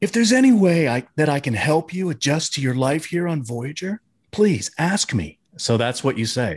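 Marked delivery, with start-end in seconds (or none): 0.0-5.4 put-on voice with a hint of flirting. Reading out the other speaker's written line, imitating the other speaker's voice. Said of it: "let me do it in your voice".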